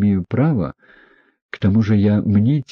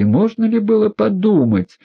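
astonished; 13 semitones higher, 3 dB louder than usual. A narrator's reading. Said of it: "всплеснула руками Лизавета Прокофьевна".

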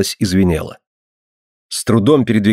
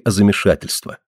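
ordinary delivery

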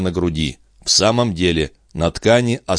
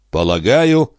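slow; 4 semitones higher, 3 dB louder than usual. Acted. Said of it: "медленно проговорил он".

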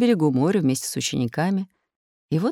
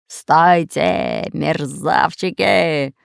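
roaring pirate; 4 dB louder, much slower than usual. Acted. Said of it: "взревел рыжебородый пират".

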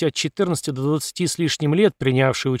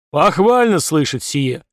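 slow pompous general; 4 dB louder, slower than usual. Acted. General approves the recruits.

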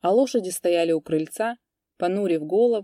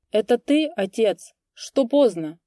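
a hint of a mumbling old priest, higher and louder; old man's mumbling voice; 5 semitones higher, 5 dB louder than usual. A narrator's reading. Old priest calls from the porch, lightly mumbling. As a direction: call out like a toothless old man. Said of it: "старческий голос, шамкая, спросил".

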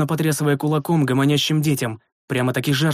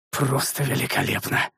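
softer, held-back displeasure; seething sarcasm; 5 dB quieter than usual. A narrator's reading. Master reacts to bird landing on the lad, seething. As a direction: force it out quietly, unimpressed. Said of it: "процедил я".

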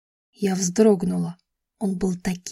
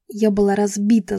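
ordinary delivery

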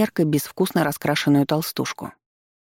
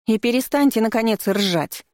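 shouting; 6 semitones higher than usual. Acted. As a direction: stretch out the scolding, pitched high. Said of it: "Снова перешла она на крик".

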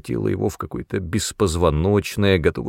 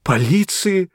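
high, gasping horror; horrified gasp; 11 semitones higher than usual. Acted. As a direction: gasp the word in terror. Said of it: "в ужасе ахнул Мэтт". (в ужасе ахнул)

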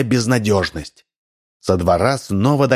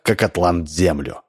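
plain reading voice

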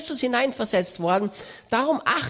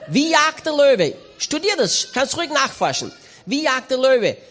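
fervent preaching; 4 semitones higher, 3 dB louder than usual. Acted. Preacher challenges the listeners about how the lion hunts, fervent. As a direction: press the question on the crowd.

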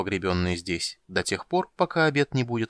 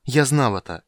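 exclaiming; 3 semitones higher, 6 dB louder than usual. A narrator's reading. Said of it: "воскликнул маг".

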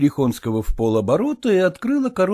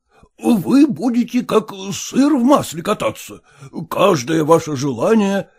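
put-on stiff elderly suitor; 6 semitones higher, 4 dB louder than usual. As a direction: recite the proposal like a form. Erekhonsky voiced.

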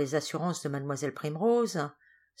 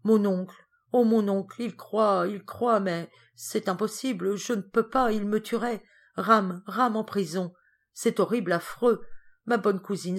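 higher, louder pleading girl, lightly acted sobbing; tearful despair; 5 semitones higher, 4 dB louder than usual. Geneviève in bed, despairing over her uncle, understated tears. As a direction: beg through tears, frantic. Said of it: "elle éclata en sanglots".

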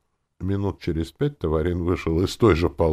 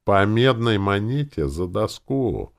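slow, loud, higher outcry; exclaiming at an outrageous thing; indignant exclamation; 7 semitones higher, 5 dB louder, slower than usual. A narrator's reading. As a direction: drag it out in outrage. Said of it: "воскликнул Таварин".

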